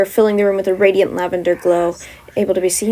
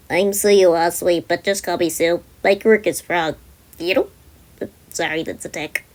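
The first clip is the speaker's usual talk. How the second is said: put-on frog girl; 3 semitones lower than usual.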